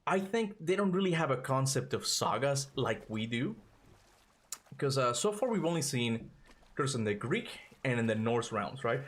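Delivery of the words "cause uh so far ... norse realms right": breathless from climbing stairs; out of breath. Real, not acted. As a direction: talk while catching your breath. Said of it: "I am really out of breath".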